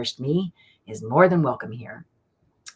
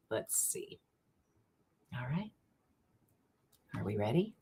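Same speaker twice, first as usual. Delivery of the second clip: whisper; 3 semitones lower, 12 dB quieter than usual. Real, not acted. Quietly reading the pendulum.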